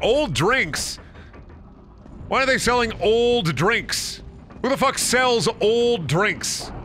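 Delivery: dumbfounded at the idea; baffled disbelief. Retold or imitated. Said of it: "I was like".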